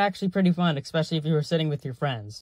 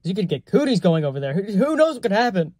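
hammed-up worry, higher and louder; mock alarm; 4 semitones higher, 4 dB louder than usual. Justifying the dare as a war crime, mock alarm. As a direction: play up the panic.

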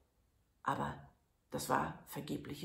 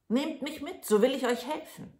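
put-on high, bright little boy's voice; lightly high, eager little lad; tiny Daumestick; 9 semitones higher, 6 dB louder than usual. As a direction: voice the thumb-sized hero. Daumestick's voice in the tale.

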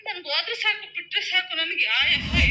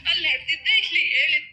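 crying. Real, not acted. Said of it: "ಅದಕ್ಕೆ ಅಳು ಬಂತು".

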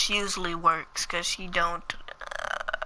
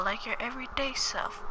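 whispered aside; 4 semitones higher, 5 dB quieter than usual. Real, not acted. Aside while changing outfit.

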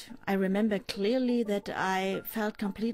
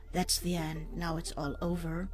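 calmly retold last words; quoted calm; 2 semitones lower than usual. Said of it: "my mother said very calmly".

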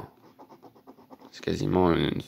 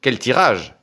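delighted exclamation, higher and louder; excited, higher; 5 semitones higher, 4 dB louder than usual. Real, not acted. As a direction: savour the lucky draw. Marvels at the draw. (ravi, plus aigu et plus fort)

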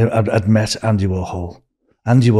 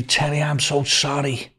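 apologetic; 5 semitones higher, 4 dB quieter than usual. Retold or imitated. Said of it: "And he went to me".

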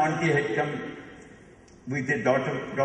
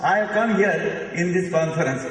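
mock speech with a big inhale first; breath before each phrase. Shown as a demonstration. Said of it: "You speak like this?".

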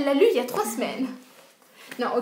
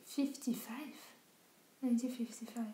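whisper; 12 dB quieter, slower than usual. Real, not acted. Repeating the date, puzzled.

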